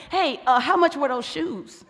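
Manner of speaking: a lightly voiced husband asking about money, slow; mock-stern question about what the shoes cost; financially responsible voice. Husband asks his wife about her shoes, with a lightly voiced financially responsible tone. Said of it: "in a very, uh, financially responsible voice".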